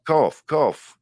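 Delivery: "Corf" with every letter sounded, a full r; Yorkshire pronunciation. Shown as a demonstration. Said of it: "a Yorkshireman, I'll pronounce every letter".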